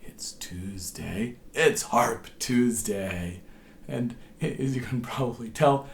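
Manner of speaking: hoarse, strained voice from a cold; lost voice. Real, not acted. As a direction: speak through a sore, tired throat. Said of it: "I've lost my voice a bit".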